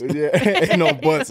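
laughing through the words, slow; chuckling while drawing it out. Real, not acted. Friends joking about McRib return, laughing slowly.

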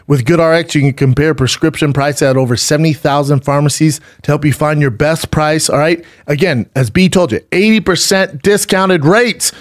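smooth, upbeat sponsor read. Real, not acted. Host selling mattresses to listeners, ad read. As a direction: pitch it to listeners with steady drive.

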